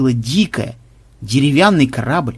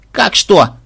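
high, mildly raised cry; excited wail; 6 semitones higher, 4 dB louder than usual. A narrator's reading. Granddaughter answering what to do with treasure, mild excited yell. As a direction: cry out in eager disbelief. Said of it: "завопила внучка".

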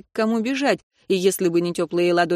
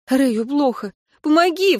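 sobbing plea; 6 semitones higher than usual. A narrator's reading. Minnie sobs to her sister for help. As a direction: beg through a sob. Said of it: "всхлипнула я".

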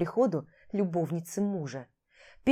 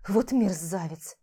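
медленно, с презрением; протяни брань с отвращением; презрительно; slower than usual. Acted. Ругает мужа. (медленно и презрительно о муже)

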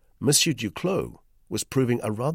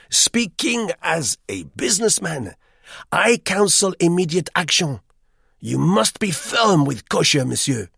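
high, loud, fussy Frenchman; eager hotel guest; 10 semitones higher, 7 dB louder than usual. A narrator's reading. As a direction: press him with busy insistence. Duclos counselling firmness.

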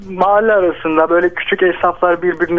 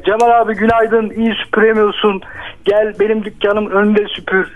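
higher, teasing call to a neighbour; lightly acted street hail; demonstrated shout; 5 semitones higher than usual. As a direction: call out to an older shopkeeper friend. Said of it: "şöyle bağırıyorum, hemen anlatayım".

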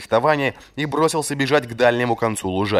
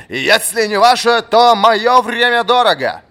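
slow, high, loud impatient rebuke; impatient shout; 13 semitones higher, 8 dB louder, slower than usual. A narrator's reading. Old master berating the slow captain. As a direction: hammer each word in anger.

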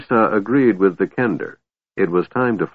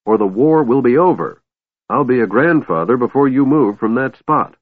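high, loud, exasperated urging; shrill yelling; 6 semitones higher, 4 dB louder than usual. A narrator's reading. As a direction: nag shrilly at the top of the voice. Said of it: "Tass yelled shrilly".

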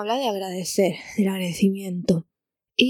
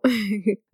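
nervous laugh. Real, not acted. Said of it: "Me pongo nerviosa en la radio".

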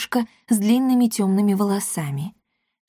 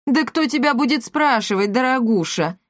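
scoffing; 5 semitones higher than usual. A narrator's reading. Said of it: "хмыкнул её отец".

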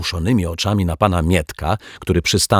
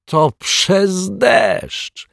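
excited; 13 semitones higher, much slower than usual. Acted. Detective shouts his discovery.

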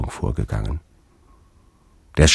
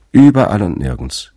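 regal purring riddling voice; 4 semitones higher, 6 dB louder than usual. Acted. Sphinx answers in a riddle.

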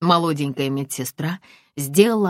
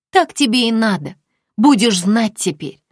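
gloating Snow Maiden; 8 semitones higher, 8 dB louder than usual. Acted. Dream Snow Maiden taunts Aglaya, gloating loud. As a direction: spit the gloat in her face.

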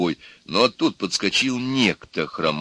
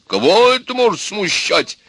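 loud, high-pitched protest; exclaiming; 12 semitones higher, 7 dB louder than usual. A narrator's reading. Bride's father waving away the doubt, loud exclamation. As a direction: ask it as an emphatic exclamation. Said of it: "воскликнул отец невесты".

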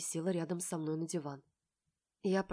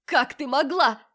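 higher, louder betrayed cry; shouting; 7 semitones higher, 10 dB louder than usual. A narrator's reading. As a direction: scream the accusation at her sister. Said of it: "кричит сестра".

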